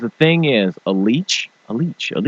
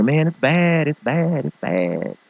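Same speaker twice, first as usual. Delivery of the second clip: admitting it's bad; 4 semitones higher, slower than usual. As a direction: drop the act and deflate.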